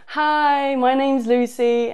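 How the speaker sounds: a light Yorkshire accent put on for Lucy. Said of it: "she's from Yorkshire".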